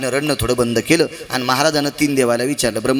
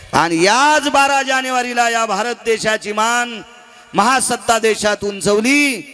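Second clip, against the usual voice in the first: slow, raised, ringing proclamation; fervent preaching; 8 semitones higher, slower than usual. Acted. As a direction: announce it to the whole hall, slowly. Preaching at full force.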